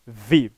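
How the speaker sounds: "vi" after a pause, standing alone; isolated syllable. Shown as a demonstration. Teacher naming the second syllable of chave, "vi" set apart. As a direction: give "vi" its own separate beat. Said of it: "e a segunda sílaba".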